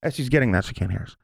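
whispering so she can't hear; hushed, secret whisper. Real, not acted. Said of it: "Why are you whispering?".

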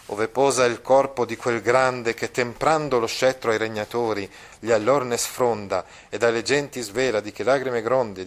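measured, declaiming verse reading with held phrases; poem recitation. Shown as a demonstration. Teacher reading the Sepolcri verses to the class, lightly declaimed.

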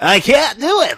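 high, loud squeaky announcer voice; Pod Race announcer voice. Pretend. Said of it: "try to do your announcer voice, but do it in a higher pitch".

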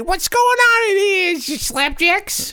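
mobster voice. Acted. Ghost barges in, mobster voice.

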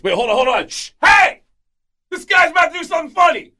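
high, fast hyped-up yell; excited shout. Retold or imitated. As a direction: hush the room, then hype it up. Retold guy hushing the crowd.

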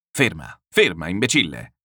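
a lightly voiced angry yell at the coachman; mild shout. Cicikov yelling at coachman Selifan, mild shout. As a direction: bark stop, stop at him, mildly. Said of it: "gridò Cicikov a Selifan".

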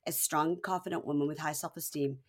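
low-key mock confessional; calm, serious. Girlfriend confiding to camera, calm and serious. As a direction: settle down into earnest, measured softness. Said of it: "in a very, like, calm, serious moment".

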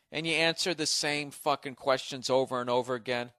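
ordinary talk, nothing marked

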